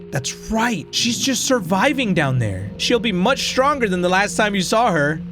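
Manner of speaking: sly potato. Acted. Potato in the drawer goading the player toward the basement, mocking.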